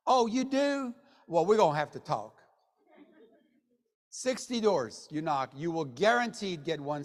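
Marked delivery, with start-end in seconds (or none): 0.1-2.4 put-on Southern accent, higher surprised opening. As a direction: play a Southern seller suddenly interested. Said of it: "my best Southern accent".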